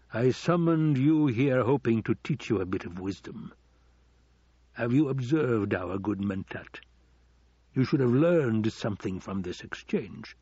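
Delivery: lightly theatrical lord schooling his heir; a hint of pompous villain, weighty emphasis; lecturing Baron.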